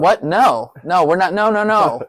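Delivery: rapid-fire mock protest, pitched high; panicked refusal. Podcaster replaying his reaction to a change of plans, panicked. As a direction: imitate frantic refusal, voice jumping up.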